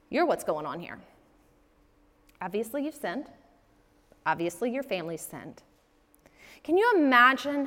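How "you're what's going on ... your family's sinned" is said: cold accusation. Retold or imitated. Friends accusing Job.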